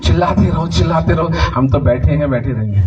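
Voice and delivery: low, unmoved mock reply; imitating indifferent congregation. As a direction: drop the pitch as a congregation that won't budge. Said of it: "और आप लोग". (बेपरवाह श्रोताओं की नकल, नीची आवाज़ में)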